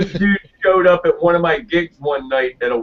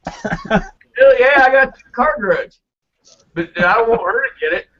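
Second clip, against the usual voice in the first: hammed-up redneck; 8 semitones higher than usual. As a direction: play the dumb eager redneck. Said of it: "acted divorce joke".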